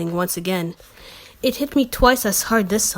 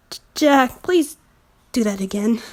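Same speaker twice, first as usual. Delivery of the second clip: breathless plea; 3 semitones higher than usual. Acted.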